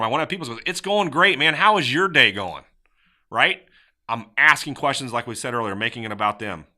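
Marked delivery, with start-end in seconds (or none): 0.7-2.6 upbeat, raised, friendly reply; lively, welcoming, turning the question back; warm. Shown as a demonstration. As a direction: greet a customer with keen interest. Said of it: "I wanna be warm".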